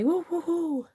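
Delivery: cheer. Real, not acted. Cheers news of catalogue.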